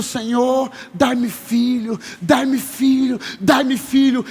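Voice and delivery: lightly acted desperate plea; a woman's imploring prayer, mildly dramatized; pleading prayer. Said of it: "ela tá no templo orando".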